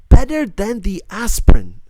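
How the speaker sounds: high, loud, insistent; lightly voiced insistence. A narrator's reading. Dika defending her red glass, an insistent, loud voice. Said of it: "she insisted".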